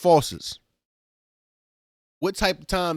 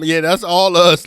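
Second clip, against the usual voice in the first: laughing mock quote; 3 semitones higher, 11 dB louder, slower than usual. Quoting Slime confessing.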